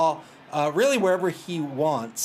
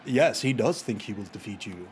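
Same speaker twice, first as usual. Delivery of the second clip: lightly voiced low announcer; lower, lightly put-on announcer tone; 5 semitones lower than usual. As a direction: read it with a hint of an announcer. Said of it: "in his best announcer voice".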